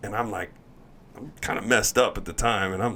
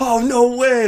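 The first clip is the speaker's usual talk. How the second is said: much higher, sarcastic ribbing; mocking teammates; 9 dB louder, slower than usual. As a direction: tease him in a high mock-amazed voice. Teammates ripping into him.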